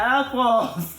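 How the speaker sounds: tongue held out. Pretend. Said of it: "You're not holding your tongue".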